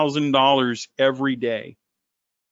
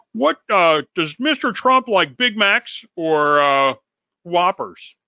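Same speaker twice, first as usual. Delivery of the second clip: mock reporter; 3 semitones higher, 4 dB louder than usual. Mocking a student as a press reporter, halting and loud. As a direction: play a clueless reporter fumbling a question. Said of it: "you're the reporter at the press conference that says".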